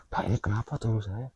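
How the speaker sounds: put-on hushed, breathless whisper to the old man; whispered question. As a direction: whisper it anxiously, barely voiced. Retold hushed question to kuncen. (berbisik cemas)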